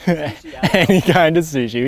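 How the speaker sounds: slow, laughing through the words. Real, not acted. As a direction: chuckle it out, drawn out. Laughs while naming favorite food.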